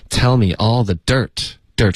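"dirt" given the main weight; stress on DIRT. Shown as a demonstration. Teacher models for student, stressed "dirt". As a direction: lean into "dirt" at the end. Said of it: "dirt是一个重音".

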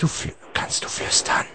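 whispered question; softly whispered to the caller. Shown as a demonstration. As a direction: ask it without voice. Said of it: "nur flüstern".

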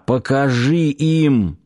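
slow hoarse rasp; a lightly voiced wheeze. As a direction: rasp it out with the last breath. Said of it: "успел просипеть".

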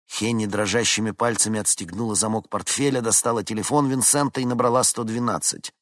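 plain reading voice

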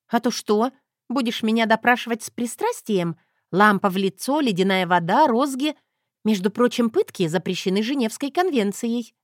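mock him playfully; sassy Zoya.

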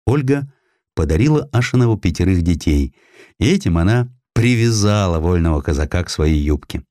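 usual speaking voice

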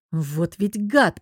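slow growled curse; mock growl. Agata growls at the troublesome guest, slowly. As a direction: drag it out through teeth. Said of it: "прорычала я".

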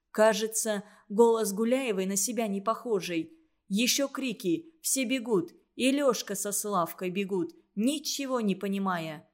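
plain reading voice

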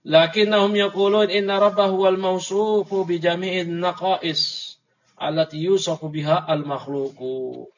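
measured recitation of a religious text; reading Arabic text. A narrator's reading. Teacher reading the Arabic book to students, formal recitation. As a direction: read it out formally, drawing out the endings.

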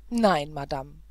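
a loud, breathless cry of protest; agitated outcry. Acted. Prince bursting into the governess's room, loud and exasperated. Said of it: "rief er".

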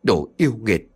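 man yelling at the ghost through the window; angry shout. Acted. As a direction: shout at the demon outside. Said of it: "quát lớn".

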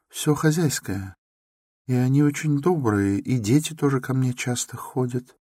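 put-on a meek girl talking quickly about her neighbours; shy young woman chattering nervously; timid young Sonya. A narrator's reading. Sonya's voice held.

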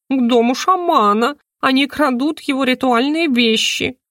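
high, fluttery and breathless; agitated bird voice. Acted. Talking bird flapping round the room, high and alarmed. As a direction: squawk it out in a flap. Хрумса reports the theft.

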